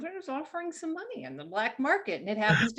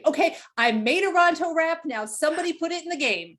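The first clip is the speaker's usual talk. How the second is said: artist lightly voiced, higher and louder; lightly acted demand; 5 semitones higher, 3 dB louder than usual. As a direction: call out a mock demand to the team. Artist's Slack post acted as a demand.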